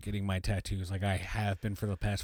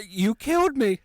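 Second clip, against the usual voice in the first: mock dying wail; 12 semitones higher, 6 dB louder than usual.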